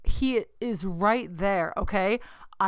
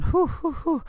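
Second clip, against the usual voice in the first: calming breaths; 9 semitones higher than usual. Retold or imitated. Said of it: "I need to calm down".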